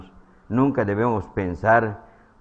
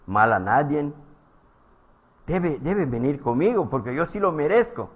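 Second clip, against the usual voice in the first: higher, indignant voice of a smug churchgoer; mock self-righteous crowd; 4 semitones higher than usual. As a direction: play the proud crowd complaining about Jesus.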